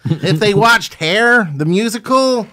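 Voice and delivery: laughing while talking. Real, not acted. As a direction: chuckle through the words. Laughing about the musical Hair.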